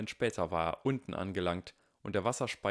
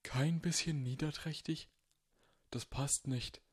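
mildly disappointed; 6 semitones higher, 4 dB quieter than usual. A narrator's reading. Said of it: "der überrascht und enttäuscht aussah".

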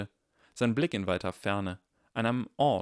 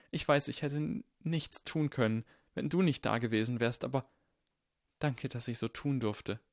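lightly voiced boy, slightly higher, hesitant; Neville, haltingly grateful; 4 semitones higher than usual.

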